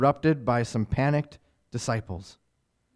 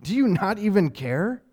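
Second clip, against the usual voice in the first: desperate cry; 7 semitones higher, 4 dB louder, slower than usual. Acted. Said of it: "thing that they said".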